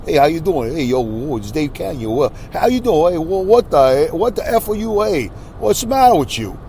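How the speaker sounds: a hammed-up New York rant, building; exaggerated Brooklyn ranting. Shown as a demonstration. Showing how viewers hear him when he rants. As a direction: rant in a thick Brooklyn accent. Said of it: "Like that".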